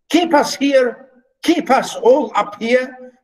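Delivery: high, agitated pleading; excited. Shown as a demonstration. Teacher voicing the steward's alarmed protest, excited. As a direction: press each question with alarm. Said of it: "Excitedly again".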